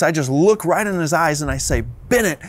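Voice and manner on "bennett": firm, measured reprimand, retold; retold stern warning to a child; stern parent. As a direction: lay down the law slowly, without shouting. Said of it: "a very stern voice".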